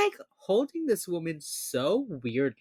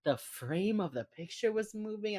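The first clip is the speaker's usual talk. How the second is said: ordinary delivery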